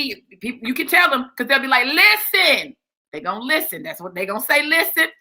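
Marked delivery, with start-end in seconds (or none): 1.9-2.8 "Listen" pitched high as a catchphrase; signature catchphrase. Shown as a demonstration. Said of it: "the way I say it". 4.6-5.1 "Listen" lifted in pitch as a catchphrase; signature catchphrase. Shown as a demonstration. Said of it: "the way I say it".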